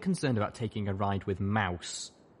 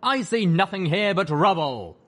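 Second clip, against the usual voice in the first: booming ghoul voice; 9 semitones higher, 8 dB louder than usual. Acted. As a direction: boom like a ghost in a tank. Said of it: "voice echoed painfully inside the sky tank".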